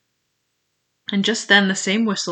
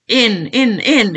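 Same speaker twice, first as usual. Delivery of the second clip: high, loud urging; raised-voice repeated command; impatient shout; 4 semitones higher, 7 dB louder, slower than usual. A narrator's reading. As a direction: shout them inside with eager rage. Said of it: "he shouted".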